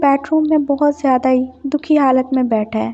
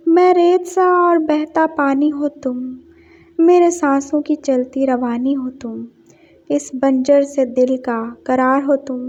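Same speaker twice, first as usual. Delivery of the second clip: poem recital. Acted. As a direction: read the poem like a shy love confession. Recites poem within story.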